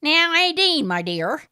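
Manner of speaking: high, loud smarmy gentleman voice; fawning over Aideen, the smarmy caller; Morris, oily suitor. A narrator's reading. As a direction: purr it like a pushy suitor.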